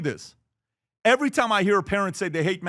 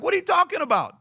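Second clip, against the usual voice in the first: higher, incredulous mock question; mock disbelief; 11 semitones higher than usual. Dad reacting to his kid negotiating, high disbelief. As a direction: act amazed at the kid's pitch. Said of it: "I'm like".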